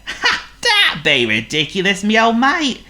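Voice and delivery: loud cockney wolf voice; chummy rough wolf. Acted. Wolf voice laughing.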